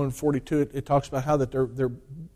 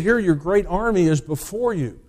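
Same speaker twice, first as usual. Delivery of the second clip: lightly voiced general boasting to Xerxes; general urging the king; 4 semitones higher than usual. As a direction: pump up the despairing king about his army. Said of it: "He said".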